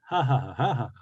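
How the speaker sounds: acted laughter. Old woman can only laugh at the man, acted laugh. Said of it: "Kopit Yaka hayuhihi".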